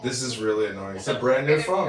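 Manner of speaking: muffled underwater phone sound; bad mic, like talking underwater. Real, not acted. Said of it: "It does sound like you're underwater".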